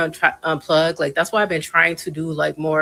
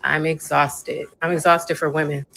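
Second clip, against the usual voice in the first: weary. Real, not acted. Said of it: "I'm tired".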